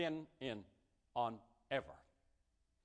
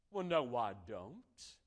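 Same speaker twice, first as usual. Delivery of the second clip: mild denial; 3 semitones lower, slower than usual. Pretend. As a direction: calmly brush off the charge. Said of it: "And you could say".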